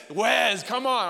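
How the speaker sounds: imitating Craig's loud, high "Wes" ending in a buzzed z; exasperated "Wes" said with a final z sound. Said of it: "He says Wes with a Z".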